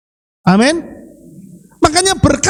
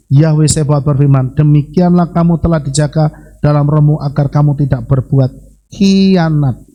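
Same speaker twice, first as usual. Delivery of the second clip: low, even reading voice; measured recitation of holy text; scripture reading; 7 semitones lower than usual. Acted. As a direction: read the verse solemnly on a level, lowered pitch. Reads scripture aloud to congregation.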